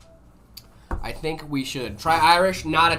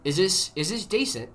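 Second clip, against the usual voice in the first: lightly attempted British accent; tentative, understated British accent; 3 dB quieter than usual. Shown as a demonstration. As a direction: try on a modest British accent. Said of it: "Is this a decent British accent?".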